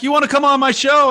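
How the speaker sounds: mock high-pitched invite. Co-host teasing his partner's invite, high mock voice. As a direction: parrot his invite in a squeaky voice.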